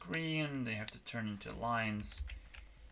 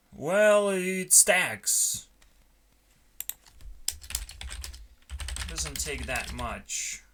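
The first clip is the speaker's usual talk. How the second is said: drawn-out, higher-pitched mock demon; 5 semitones higher, 4 dB louder, much slower than usual. Demon arguing that it stacks with others, mock demon voice. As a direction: put on a demon voice and stretch the words. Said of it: "what a good fucking demon voice".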